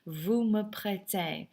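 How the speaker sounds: "prêtez" said slowly with no z sound at the end; silent final Z. Shown as a demonstration. Teacher correcting students' French, slow model with silent Z in "prêtez". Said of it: "Never pronounce that Z".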